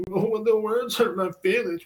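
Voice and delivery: high, slow whiny mock voice; mocking whiner. Mocking people offended by words, in a high slow whiny voice. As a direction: sneer at the easily offended. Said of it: "And, like".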